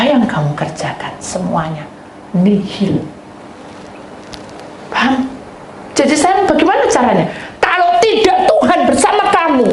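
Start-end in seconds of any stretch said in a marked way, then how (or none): 5.9-9.7 high, loud preaching cry. Acted. Preacher crying out to the congregation, high and loud. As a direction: lift it into a pleading shout.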